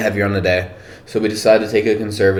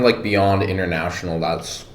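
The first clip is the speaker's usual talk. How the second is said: talking with food in mouth; words around a bite of food; mouth full. Real, not acted. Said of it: "sorry, I have something in my mouth".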